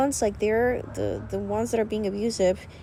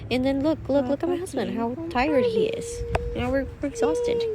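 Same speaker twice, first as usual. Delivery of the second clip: emotional; 8 semitones higher than usual. Real, not acted. Emotional about tired husband.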